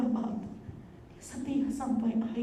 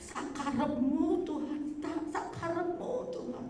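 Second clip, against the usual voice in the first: tearful surrender; slower than usual. Retold or imitated. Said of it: "Saya nangis sama Tuhan".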